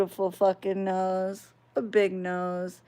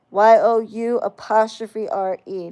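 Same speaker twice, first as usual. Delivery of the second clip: spelled out letter by letter; 3 dB louder than usual. Shown as a demonstration. Correcting a commenter, spelling the right version letter by letter. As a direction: correct spelling "Y O U apostrophe R E", each letter said separately. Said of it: "not your".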